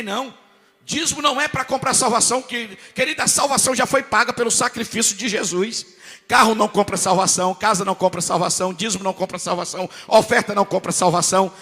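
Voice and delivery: loud, driving preacher's cadence; full-force preaching. Acted. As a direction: hammer each line home to the congregation.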